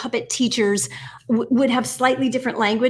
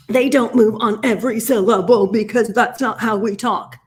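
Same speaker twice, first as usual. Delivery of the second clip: choppy, emphatic beat on every syllable, loud; every syllable punched; 5 dB louder than usual. Shown as a demonstration. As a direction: hit each syllable hard in "they don't move on every syllable". Mocks moving on every syllable.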